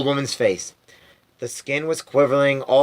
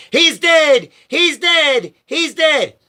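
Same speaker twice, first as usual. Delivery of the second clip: high, loud anguished wail; 13 semitones higher, 4 dB louder, much slower than usual. A narrator's reading. Grandma wailing her grief to the family, high and loud. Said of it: "a great wail of anguish".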